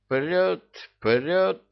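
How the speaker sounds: high, eager repeated cry; excited cry. A narrator's reading. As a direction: shout the find with childish glee. (восторженный крик)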